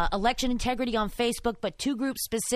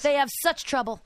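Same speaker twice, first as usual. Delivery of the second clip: higher-pitched mock pity; mock sympathy; 5 semitones higher than usual. Co-host mocking the clerk's excuse, mock sympathy. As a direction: feign sympathy for their troubles.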